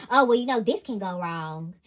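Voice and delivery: whiny doom-and-gloom mimicry; negative Nancy voice. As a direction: play a mopey pessimist. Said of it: "Literally, like".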